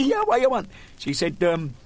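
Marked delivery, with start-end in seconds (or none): 0.0-0.7 patient voice. Retold or imitated.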